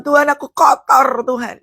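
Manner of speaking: lightly acted sobbing repentance; imitated tearful confession. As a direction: plead as if crying to God. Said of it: "Dia nangis di hadapan Tuhan".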